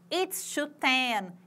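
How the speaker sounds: slow model phrase; slow demo. Shown as a demonstration. Teacher modeling the time for students, slow. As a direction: spell out the time slowly. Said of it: "Isso quando eu vou falar".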